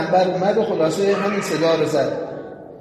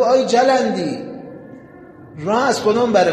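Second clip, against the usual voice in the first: calling out; 4 semitones higher than usual. Retold or imitated. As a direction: call out to the buried man. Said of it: "صدا بزن، بگو". (صدا زدن بلند)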